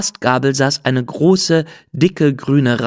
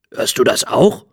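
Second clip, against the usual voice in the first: hushed whisper, listening; a secret whisper between friends. Acted. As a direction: breathe it so no one hears. Bees hush, hearing something.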